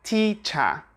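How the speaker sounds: "teacher" ending in "uh", no R; British non-rhotic "teacher"; schwa ending. Shown as a demonstration. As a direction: say "teacher" as "tee-chuh". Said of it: "we have this schwa sound".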